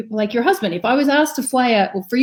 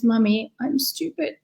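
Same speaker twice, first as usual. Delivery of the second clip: put-on child's sad voice; 5 dB quieter than usual. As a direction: echo a small girl's sad confession, hushed. Mother voices crying young daughter.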